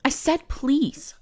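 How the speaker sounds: I said please, slow and indignant; insistent please. Acted. Mage repeating please to the ignoring human, indignant.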